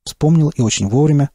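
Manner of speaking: usual speaking voice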